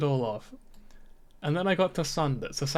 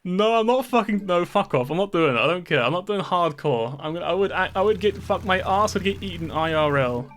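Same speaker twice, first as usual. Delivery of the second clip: emphatic, insistent protest, a bit louder; indignant refusal; 4 dB louder than usual. Real, not acted. Streamer refusing a hardcore challenge from viewers, indignant refusal. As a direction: shut the suggestion down with mild outrage.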